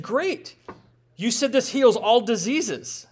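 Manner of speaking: high mock-eager, slow "Great" to the vortex man; facetious. Needling the vortex believer, mock-eager and facetious. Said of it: "So I was there being facetious".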